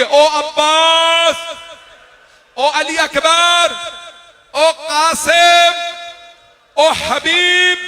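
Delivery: very high, very slow wailing call of each name. Retold or imitated. Imam calling Abbas, Akbar, Qasim and Habib by name, high slow wail. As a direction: stretch every name into a long cry. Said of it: "फिर मौला ने नाम लिए".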